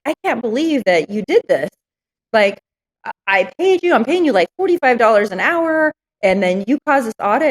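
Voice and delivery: mildly outraged, pitch climbing; a touch of exasperated disbelief; retold indignant complaint. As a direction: replay an accusing phone call, voice rising. Acted angry call to bookkeeper.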